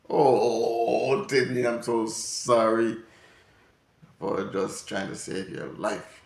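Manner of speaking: slow, hammed-up sorrowful plea; mock weepy apology. Parent mock-sobbing sorry to little Timmy. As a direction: lay the fake sorrow on thick and slow.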